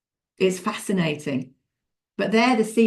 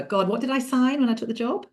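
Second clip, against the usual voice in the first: higher-pitched mock struggle to recall; trying to remember; 5 semitones higher than usual. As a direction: imitate someone searching their memory. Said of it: "look down and try and remember".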